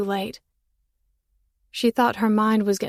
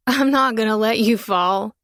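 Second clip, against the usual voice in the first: laughing voice; 5 dB louder than usual. A narrator's reading. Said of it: "his voice sounding like laughter".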